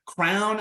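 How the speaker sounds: "crown" said like the king's crown, one syllable; presenter fumbling through variants, "crown" said like the king's crown; crown pronunciation. Shown as a demonstration. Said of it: "all these different pronunciations".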